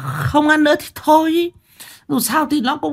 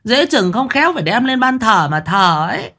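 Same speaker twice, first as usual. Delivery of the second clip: put-on high, sarcastic old wife voice; snide jab; 11 semitones higher than usual. A narrator's reading. Wife mocks husband's worry, high sarcastic voice. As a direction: needle him with scorn, pitched high. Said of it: "bà lại cạnh khóe".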